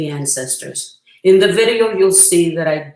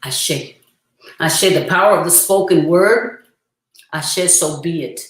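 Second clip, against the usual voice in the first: solemn amen. Real, not acted. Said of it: "I'll say the word Ashe".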